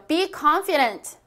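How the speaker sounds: slow, clear model sentence for repeating; teacher reading aloud slowly for practice. Shown as a demonstration. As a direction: read it slowly so students can follow. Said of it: "소리 크게 내었어요".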